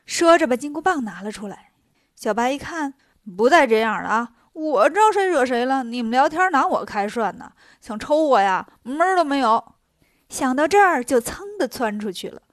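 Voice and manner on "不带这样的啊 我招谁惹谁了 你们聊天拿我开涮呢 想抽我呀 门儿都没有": loud, bouncy mock outrage; indignant protest. The little horse objects to being threatened, indignant. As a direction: protest as the wronged party.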